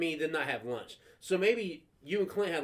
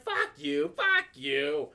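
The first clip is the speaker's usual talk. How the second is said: defiant talk-back; much slower than usual. Retold or imitated. Kid leaving the bus after arguing, high-pitched defiance.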